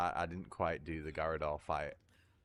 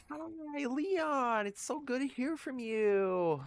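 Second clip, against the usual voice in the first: high, bright Californian phone greeting, much higher; overdone Californian valley-girl hello, much higher; mock California accent; much slower than usual. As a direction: gush it like a sugary California receptionist. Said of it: "I went all California there".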